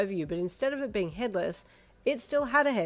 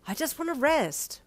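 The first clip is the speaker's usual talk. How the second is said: weary protagonist voice; 8 semitones higher, 4 dB louder than usual. A narrator's reading. Tired protagonist pleading.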